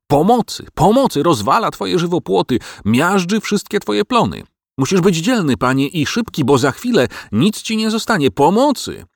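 high, frantic dog's alarm; panicked howling. Acted. Dog warns master of the giant, panicked howling. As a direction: plead for help, pitch climbing into a wail. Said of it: "Garm zaczął wyć".

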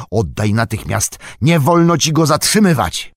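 high, loud, urgent order; shouted command. A narrator's reading. Frodo forbids Sam to keep the Ring, shouting. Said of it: "krzyknął".

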